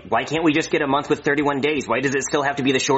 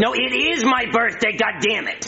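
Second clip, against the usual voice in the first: exasperated insistence; 7 semitones higher than usual. Acted. Insists it is his birthday.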